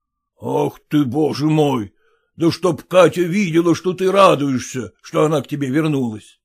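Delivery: usual speaking voice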